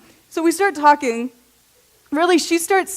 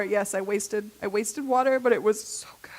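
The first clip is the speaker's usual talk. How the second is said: whisper; 3 semitones lower, 7 dB quieter than usual. Real, not acted. Guilty confession of long showers.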